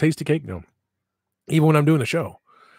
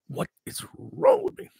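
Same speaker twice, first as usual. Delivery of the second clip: self-mocking squeak; 3 dB quieter than usual. Real, not acted. Mocking himself over autograph.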